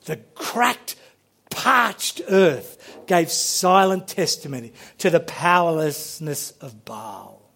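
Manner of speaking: tender poetic reread; savoured reading. Shown as a demonstration. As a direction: linger over it like a treasured line. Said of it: "Isn't that beautiful?".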